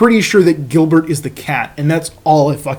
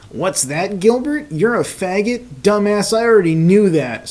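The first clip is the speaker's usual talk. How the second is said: put-on a touch of a drunk kid, high on Gilbert; lightly slurred, mocking the cat; 4 semitones higher than usual. Drunk Caillou taunting his cat, mildly slurred. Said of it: "slurred Caillou".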